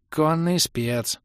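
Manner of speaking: протяжный высокий оклик издали; крикнуть в ответ, растягивая слова; согласный выкрик. A narrator's reading. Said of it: "согласно крикнул в ответ эльф". (эльф протяжно откликается)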